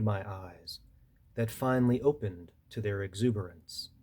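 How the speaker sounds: measured poetry recital with pauses between phrases; poem reading. Acted. Poet reading a seaside poem to an audience, measured recital. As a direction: read it line by line, letting each image land. Reads own poem aloud.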